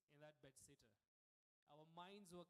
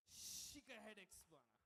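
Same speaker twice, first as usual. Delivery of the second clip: slow, loud hawker pitch; street hawker; 4 semitones higher, 7 dB louder than usual. Acted. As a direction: hawk it like a street seller.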